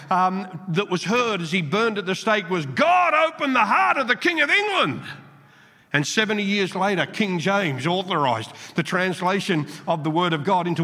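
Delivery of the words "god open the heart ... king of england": lightly voiced plea, raised higher; a hint of a martyr crying out to God; dying prayer. Preacher voicing Tyndale's last prayer at the stake, a mild pleading cry. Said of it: "his last prayer".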